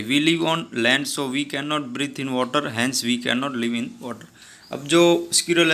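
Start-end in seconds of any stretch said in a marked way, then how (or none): 0.0-4.2 slow, clear read-aloud of the story dialogue. Acted. Teacher reading the story's English lines to her class, slow and deliberate. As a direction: read each English word slowly for the class.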